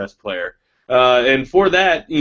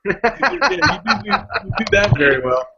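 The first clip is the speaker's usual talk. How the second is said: mock praise; 8 semitones higher than usual. Mocking friend's drinking skill.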